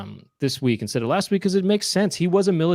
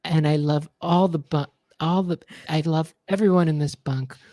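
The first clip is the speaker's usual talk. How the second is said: mock pop-star sign-off; 2 semitones higher, slower than usual. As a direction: sign off like a gentle pop star. Pop-star voice message continued.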